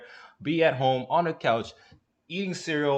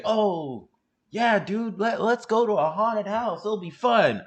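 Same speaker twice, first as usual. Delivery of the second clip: higher-pitched, louder mock enthusiasm; eager friend; 7 semitones higher, 3 dB louder, slower than usual. Friend pitching a haunted house trip, mock-eager high voice. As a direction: pitch it up like an over-keen buddy. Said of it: "whenever people say".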